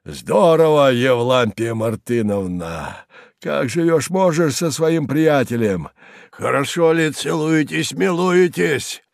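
high, slow, jeering singsong; mocking old man. A narrator's reading. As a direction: taunt the daughter with bitter glee. Kharlov mocks daughter from roof.

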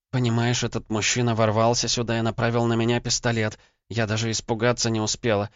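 put-on a shaken young woman, still in shock; frightened wife. Wife telling husband about the intruder, frightened and high. Lena recounts attack, frightened.

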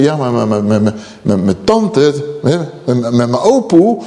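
halting, stuttered low mumble of objection; stammering excuse. Acted. Churchgoer defending granny's habits, stammering excuse. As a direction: stumble over 'mijn' like someone making excuses. Voices someone citing relatives as authority.

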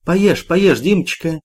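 cooing. A narrator's reading. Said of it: "проворковала женщина в душегрейке".

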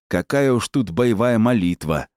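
ordinary delivery, nothing marked

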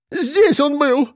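high, slow wailing; wailing lament. A narrator's reading. The woman wails over her missing wallet, slow and high. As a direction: moan it out in distress. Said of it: "причитала она".

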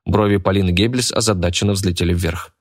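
ordinary delivery

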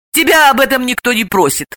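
mildly irritated comeback; snapping back. A narrator's reading. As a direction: brush her off testily. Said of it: "огрызнулась Далила".

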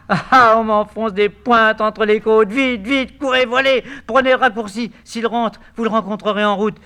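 high, loud pained urging; agonized. Acted. Eurydice in agony sending Heurtebise to run. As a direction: cry out through the pain.

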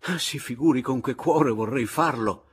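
loud, high lamenting excuse; deeply pained regret. A narrator's reading. Papiano declines to be second, effusively sorrowful. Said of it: "aprì le braccia addoloratissimo".

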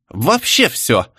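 slow, cheeky retort. Acted. Shtanina answering hecklers, cheeky slow retort. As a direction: toss it back boldly. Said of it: "дерзко ответила штанина".

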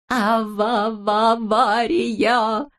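drawn-out, stuttering alarm; stammering panicked cry. A narrator's reading. Siropchik sees the balloon falling, slow stuttering panic cry. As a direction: stutter out the word slowly in panic. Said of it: "закричал Сиропчик".

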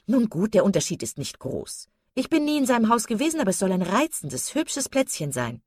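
lightly voiced breezy socialite; effusive chatterbox lady. Mrs Palmer answering her husband's correction, mildly gushing. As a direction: brush it off, then gush a little.

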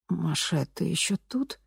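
робко; timid question. A narrator's reading. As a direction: ask timidly, almost afraid. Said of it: "робко осведомилась женщина".

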